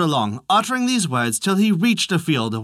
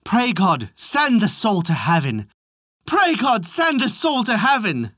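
repeated refrain; 5 semitones higher than usual. A narrator's reading. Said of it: "bade him repeat".

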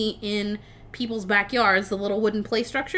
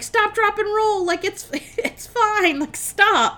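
high-pitched, urgent mock yell; retold yelling; 10 semitones higher, 3 dB louder than usual. Monsters yelling at burning Frankenstein, mock frantic shout. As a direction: call it out high, ending on a loud stop. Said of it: "are just yelling at him".

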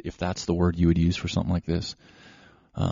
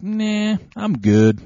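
high, breezy mock refusal from a dog; playful high-pitched "dog talking" voice; voicing the dog; 14 semitones higher, 5 dB louder, much slower than usual. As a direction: brush them off as a carefree dog. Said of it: "he's like".

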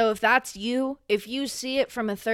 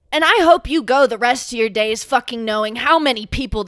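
loud angry wish; 7 dB louder than usual. Real, not acted. Cursing the studio in anger.

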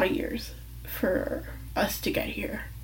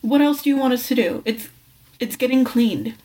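retold yelling back; 3 dB louder than usual. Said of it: "I screamed at her".

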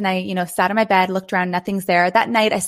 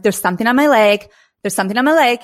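panicking; 5 dB louder than usual. Retold or imitated. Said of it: "I started kind of panicking".

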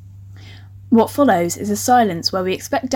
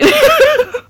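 loud, high giggle fit; burst of laughter; 6 dB louder than usual. Real, not acted. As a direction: crack up mid-thought. Cracks up at own reading.

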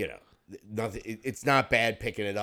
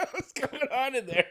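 funny high voice. Pretend. Mocking voice from another room.

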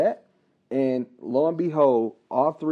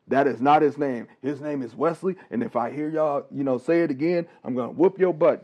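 stern dad; 2 semitones higher, 3 dB louder than usual. Retold or imitated. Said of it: "That's how my dad talked".

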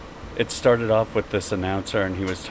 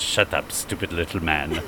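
Russian supermodel. Retold or imitated. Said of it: "Candace goes".

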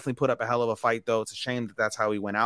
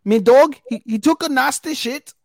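high, loud hammed-up Liverpool accent; over-the-top Liverpool accent; mock Scouse accent; 8 dB louder than usual. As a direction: play a silly Scouser. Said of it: "In British accents".

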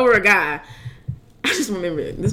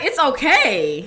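long drawn-out, higher reassurance; mock soothing; 4 semitones higher, much slower than usual. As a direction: stretch it out like comforting someone crying. Models comforting a crying friend.

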